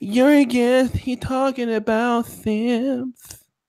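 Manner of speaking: high, whiny voice, words drawn out. Reading a viewer's comment from the chat aloud: mocking whiny voice. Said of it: "Bitch nigga voice activated".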